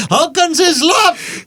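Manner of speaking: high, very slow put-on voice; slow high mock voice. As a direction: stretch it out high and silly. Mock mouthful accent, slow high.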